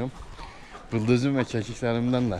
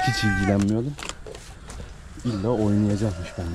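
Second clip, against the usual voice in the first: voicing the goat. Voicing the goat's thoughts.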